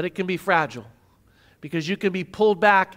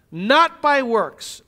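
slow deliberate; 2 semitones higher, much slower than usual. Acted. Quoting memorized verse.

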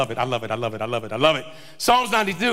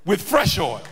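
drawn-out, deliberate scripture proclamation; confident declaration; 2 semitones lower, slower than usual. Acted. Preacher voicing the psalmist to the congregation, confident declaration. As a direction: proclaim each phrase, pausing between them. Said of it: "the confidence in which he says that".

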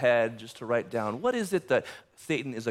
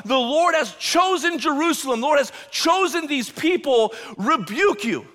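proclaiming rebuke; 10 semitones higher, 4 dB louder than usual. Acted. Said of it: "He's talking about".

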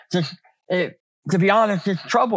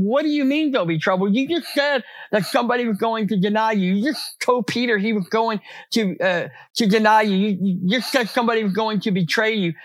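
mock disbelief; 4 semitones higher than usual. Disciples' incredulous protest imitated.

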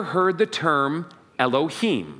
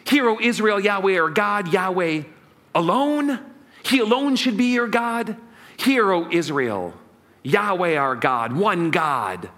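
solemn proclamation; 2 semitones higher than usual. Shown as a demonstration. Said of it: "What's the meaning of this phrase".

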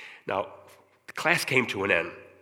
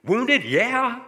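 high, louder, tearful voice; words forced out through tears; wife barely able to answer, tearful; choked with tears; 12 semitones higher, 8 dB louder than usual. Retold or imitated. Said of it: "She could hardly speak".

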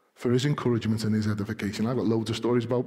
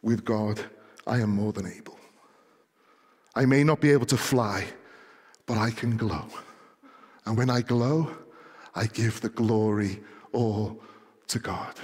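Marty McFirefly; 3 semitones lower than usual. Acted. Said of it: "Marty McFirefly turns around and says".

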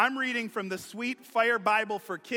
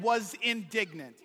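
playful put-on British accent; a touch of mock-British propriety. Shown as a demonstration. Preacher recapping with pinky in the air, mock British accent. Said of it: "you have to say it with a British accent".

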